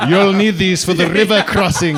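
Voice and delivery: put-on old man as Death offering coins for the ferry; Death's voice. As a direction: hand over the coins like a hooded Death. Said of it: "Death came to my show".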